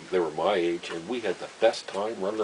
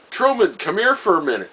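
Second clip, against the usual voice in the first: retold yell up the stairs, louder and higher; yelling upstairs; 10 semitones higher, 7 dB louder than usual. Wife yelling up the stairs for the boarder Truman, loud and high. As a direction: call him down from upstairs. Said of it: "So she yells up".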